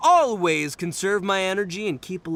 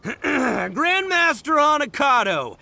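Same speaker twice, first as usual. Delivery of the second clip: 1 grand greeting; 7 semitones higher, slower than usual. Acted. Itto greets rival grandly.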